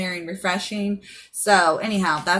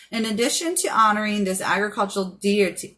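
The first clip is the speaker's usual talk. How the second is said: slurred, numb-tongued speech; words blurred by a numb tongue. Real, not acted. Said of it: "my tongue is still so numb".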